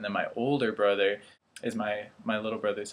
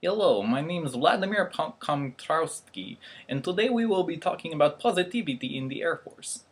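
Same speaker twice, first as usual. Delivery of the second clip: higher-pitched mock Russian accent; hammed-up Russian accent with a slowed surname; 5 semitones higher than usual. Shown as a demonstration. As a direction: introduce yourself in a put-on Russian accent. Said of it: "Russian is one of my favorite".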